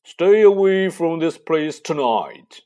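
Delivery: loud slow raspy command; croaking. Acted. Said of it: "croaked Harry".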